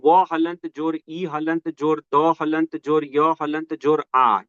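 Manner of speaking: slow, deliberate letter-by-letter spelling. Shown as a demonstration. Teacher spelling a word out slowly for students. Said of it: "इसका हम लोग वर्ण विन्यास करें".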